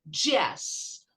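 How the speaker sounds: "jazz" begun with a hard English J, as in DJ; DJ sound in jazz. Shown as a demonstration. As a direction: say "jazz" with a d-plus-zh onset. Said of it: "Aqui tem um som de D J".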